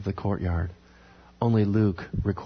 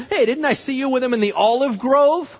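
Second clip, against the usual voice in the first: high, raised-voice accusation; challenging; 12 semitones higher, 4 dB louder than usual. Acted. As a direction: confront him, pitched way up. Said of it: "went up to Peter and challenged him".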